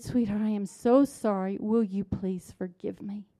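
gentle, understated plea for forgiveness; kindly apology. Retold or imitated. Mother asking her daughter's forgiveness, kindly and gently. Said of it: "And so very kindly".

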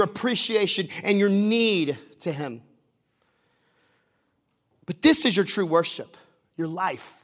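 forceful, emphatic sermon delivery; impassioned preaching. Real, not acted. Preacher urging the congregation to present their lives, impassioned preaching. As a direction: drive each phrase home to the congregation.

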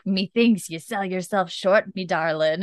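slowed, hammed-up attempt at a Scottish accent; bad Scottish accent. Bree teasing Roger as her darling, bad Scottish accent. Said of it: "she does the worst Scottish accent".

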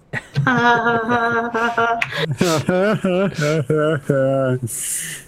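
long, drawn-out laugh tailing down. Real, not acted. Joking she was only kidding, long laugh. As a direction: let the laugh run on and on. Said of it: "It's a good laugh".

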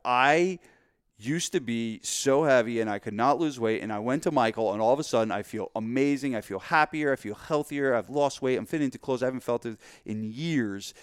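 lightly acted raving recommendation; emphatic, mildly hammed-up enthusiasm; gushing testimonial. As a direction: rave like a converted client. Acted happy client recommending trainer.

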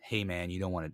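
imagine calmly defusing a threat; laid-back pretend composure; cool, calm. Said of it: "with that cool, calm psychology".

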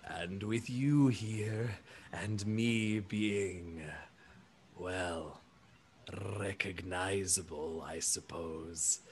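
slow, soft, drawn-out giant voice; gentle elephant person. Acted. Elephant alien reasons they will be spotted, slow and gentle. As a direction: ponder each phrase slowly, sinking low. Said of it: "He nods and says".

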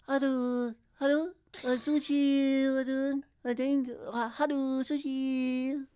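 high phone greeting voice; sing-song restaurant greeting; Haru Sushi impression. Doing the Haru sushi guy impression for a friend. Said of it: "You've gotta do that Haru one again".

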